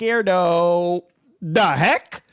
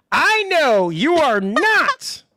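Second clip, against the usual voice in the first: put-on Jamaican accent. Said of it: "with your cringe Jamaican accent".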